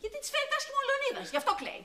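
high-pitched indignant retort; irritated, voice jumping up high; exasperated. Acted. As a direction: snap back at a nosy question. Snaps back at prying older woman.

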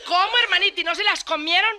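hammed-up shocked mother superior; astonished mother superior. Mother superior questions nuns.

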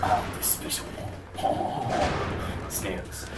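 slow, hushed bad French accent. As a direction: mumble it in a weak French accent. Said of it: "my French accent is lacking".

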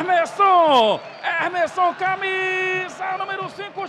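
loud name call. Real, not acted. Exalta o nome do autor.

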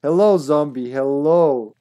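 loud, sing-song hello to the zombie; hammed-up friendly hello; mock greeting.

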